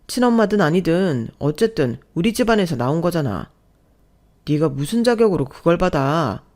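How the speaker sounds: a touch of menace; threatening demand. Acted. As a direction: press the demand with mild anger. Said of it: "협박까지 하더라고요".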